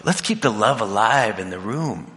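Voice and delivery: mock peacemaker. Playfully calming bickering women.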